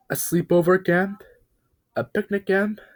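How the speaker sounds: eager, high little truck voice; excited truck. Acted. Talking truck asks Bob about the camp, excited and high. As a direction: pitch it up with childlike excitement.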